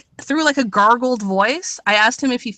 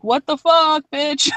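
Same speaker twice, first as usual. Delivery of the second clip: freaked out; 5 semitones higher, slower than usual. Retold or imitated. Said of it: "the guy looked all fucking freaked out".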